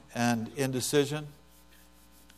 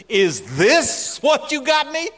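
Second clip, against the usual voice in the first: high, slow, dismayed wife voice; hammed-up let-down wife holding up a gift; wife holding the weed whacker, high and let down; mock disappointed wife; 10 semitones higher, 5 dB louder, slower than usual. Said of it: "she says".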